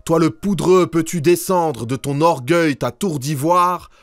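high-pitched, declaimed cry of protest; crowd crying out. A narrator's reading. Angry crowd heckling the banker in verse, high declaimed cry. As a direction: cry it out in verse, pitched well above the narration. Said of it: "Ces gens criaient".

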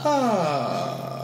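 loose easy creak on ah; lazy relaxed fry, no effort; relaxed vocal fry. Shown as a demonstration. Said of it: "de uma maneira super, ah, relaxada".

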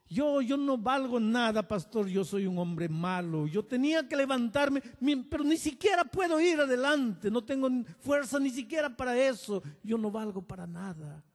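loud, high and broken; desperate cry. Retold or imitated. Old man pleading to pastor, loud anguished cry. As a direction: cry out his worthlessness.

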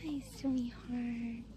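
slow, soft cooing greeting; slow gentle hello to a cow; tender coo. Real, not acted. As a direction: croon it softly to the cow.

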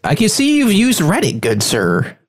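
high, put-on mock-formal gentleman voice; pompous "good sir" voice, lifted high; silly voice. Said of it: "When I, when I'm doing that voice".

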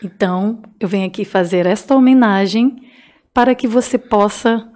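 a hint of a sultry romantic reader; sensual voice. Shown as a demonstration. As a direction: read it low and seductive. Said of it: "uma voz sensual, vai".

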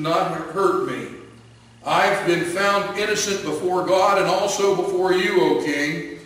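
calling up from the den. Acted. Daniel to the king, loud and reassuring.

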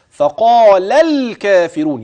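فقال الكافرون slow and joined, the لام flowing into the لام; connected recitation demo. Shown as a demonstration. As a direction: glide فقال into الكافرون without a break. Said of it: "يبقى لام بعدها لام". (وصل فقال الكافرون)

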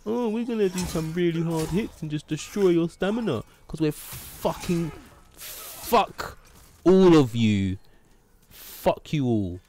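high sneering put-on voice; mocking enemy voice. Mocking the enemies in game.

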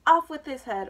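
loud, high queen's shout; screamed command. A narrator's reading. Queen stomping around the game, screaming. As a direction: holler the sentence out. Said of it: "stomping around screaming".

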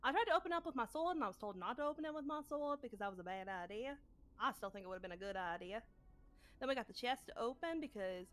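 lightly put-on character voice recapping the adventure. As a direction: recount the quest in character, lilting. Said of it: "easier if I was talking like me".

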